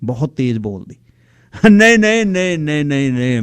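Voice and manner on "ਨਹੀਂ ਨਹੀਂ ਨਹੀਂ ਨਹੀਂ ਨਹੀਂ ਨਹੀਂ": fading refusal. Acted. He fends off her invitation.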